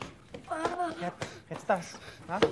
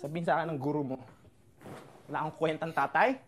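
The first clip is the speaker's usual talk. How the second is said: defeated father, low and quiet; bitter hurt; 9 semitones lower, 7 dB quieter than usual. Acted. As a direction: let the shame sink in quietly. Father brooding after outburst.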